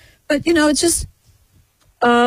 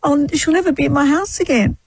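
mock despair; 5 semitones higher than usual. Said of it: "every day you go".

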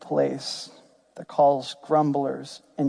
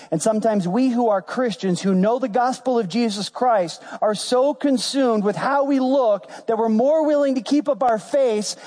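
raised-pitch, insistent preacher delivery; impassioned preaching; 6 semitones higher than usual. Acted. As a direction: press each point home to the congregation.

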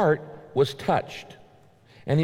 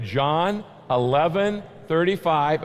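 slow, even, leading the congregation word by word; slow group recitation; 2 semitones higher than usual. Shown as a demonstration. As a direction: lead the room in saying it together. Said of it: "Let's say it".

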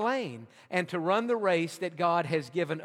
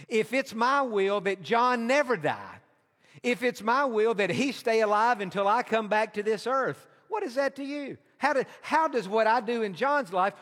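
higher, insistent rhetorical questioning; emphatic challenge; 4 semitones higher, 3 dB louder than usual. Acted. Jesus challenging Peter about John, emphatic and insistent. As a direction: press the point as an acted rebuke.

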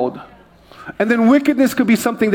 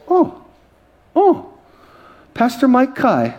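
much higher, gasping oh before the name; starstruck recognition; 5 semitones higher, slower than usual. Retold or imitated. Airport clerk spots the pastor, gushing in surprise. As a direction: she can't believe who's standing there. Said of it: "She looks".

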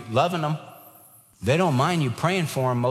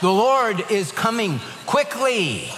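laughing; 5 semitones higher, slower than usual. Real, not acted. Chuckling after the joke.

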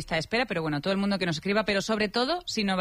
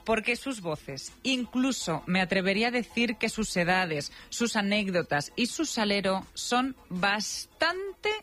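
lively, measured radio script read; radio presenter narration; 2 semitones higher, slower than usual. Real, not acted. Presenter telling listeners the voices are alike, playful radio narration. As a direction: present it with playful, drawn-out emphasis.

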